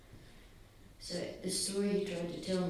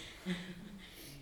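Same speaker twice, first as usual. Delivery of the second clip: tearful laugh; 4 semitones higher, 9 dB quieter than usual. Real, not acted. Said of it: "I could do this".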